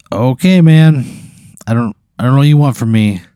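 exasperated bartender, fed up; annoyed. Acted. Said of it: "He's like".

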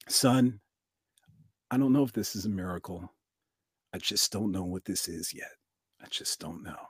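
quiet, patient wisdom, letting it trail away; calm old father. Retold or imitated. Elderly dad calms his excited son, soft and fading.

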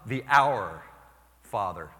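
loud, fond emphasis; delighted lady. Retold or imitated. Newcomer lady loving the Our Father, loud. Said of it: "And she goes".

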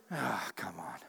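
whispered, teasing mock prompt. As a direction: whisper it like a nudging coach. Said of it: "God wasn't inside of you going".

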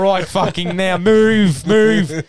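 high, very loud orders; retold urgent shout. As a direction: yell at your mates to get moving. Retold panic rushing for the train.

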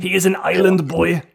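put-on loud, high Austrian accent slipping away; hammed-up, badly faked Austrian accent; botched Austrian accent. Player echoes friend's island boy line, failed Austrian accent. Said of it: "Now it's becoming a not Arnold accent".

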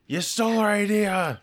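high-pitched pretend outrage; squawked mock indignation; mock accusation. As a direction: accuse them like an aggrieved studio boss, jokingly. Mimics studio people arriving angry.

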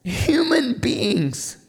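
quiet awe-filled pause on each word; hushed reveal. Acted. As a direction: let the answer land in a hush. Hushed reveal, then repeated loudly.

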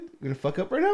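mild mock taunt; a sly taunt to yourself; teasing inner voice, first take. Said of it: "a little, like".

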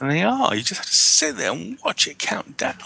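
high mock whine. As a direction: whine it up high like a fed-up kid. Agreeing the countdown is horrid.

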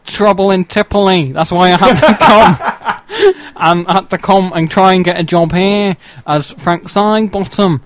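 lightly voiced comedy character; a hint of Frank Sidebottom. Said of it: "I've swapped out for Frank Sidebottom now".

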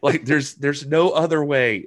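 exasperated tech support, laughing; exasperated helper. Retold or imitated. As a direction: explain in laughing despair. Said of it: "And you're like".

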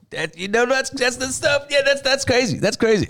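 put-on high-pitched gushing hype girl voice; hype friend impression. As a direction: gush like an overexcited fan. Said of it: "she's just like".

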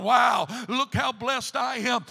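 slow, loud marveling wow; drawn-out shout of wonder at his blessings; Potiphar amazed. Acted. Potiphar gazing round his chamber, slow loud amazed shout.

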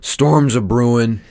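slow, slightly hammed-up delivery; drawn-out, lightly cheesy quote; cheesy movie line. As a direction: lay on the corn a little. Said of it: "cheesy, in your face".

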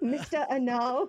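playful mock-French pronunciation; fake French accent. Co-host teasing friend with a nickname, fake French accent. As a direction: say it grandly in pretend French. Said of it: "my fake French accent".

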